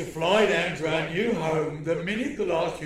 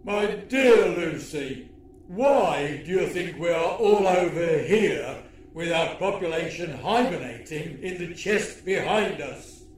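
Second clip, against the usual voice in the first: alien villain voice. Acted.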